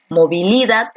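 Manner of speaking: "movilidad" stressed on LI, the third syllable; misplaced stress. Shown as a demonstration. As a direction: wrongly hit LI in "movilidad". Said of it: "¿Dónde encaja mejor?".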